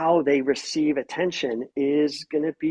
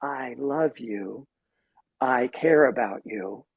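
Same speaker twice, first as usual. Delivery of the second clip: tender; 3 semitones lower, 3 dB quieter, slower than usual. Shown as a demonstration. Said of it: "the tone said".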